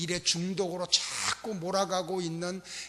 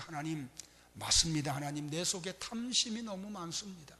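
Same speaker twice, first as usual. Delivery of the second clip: tearful repentant prayer. Retold or imitated. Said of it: "눈물을 흘리면서 회개 기도만".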